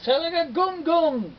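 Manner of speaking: frantic repeated incantation; insistent spell. Acted. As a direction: try it again harder. Spider tries the spell again.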